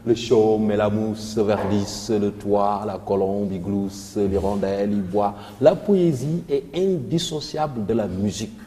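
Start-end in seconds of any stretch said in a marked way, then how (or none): 0.0-5.3 slow, low schoolroom recitation; unhurried reciting of a rhyming poem; rhymed recitation. Shown as a demonstration. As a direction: recite the verse evenly, line by line. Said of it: "on fait des récitations, il y a déjà les rimes".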